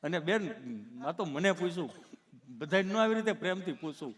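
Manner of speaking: lightly voiced halting stammerer; a slight catch between phrases; tongue-tied Gabho. Gabho explaining to the nurse, mildly stammering. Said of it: "ચોંટે અટકે".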